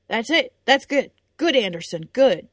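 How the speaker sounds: encouraging coach. Acted. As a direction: cheer on the sparring boys. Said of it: "Gresham said as he moved".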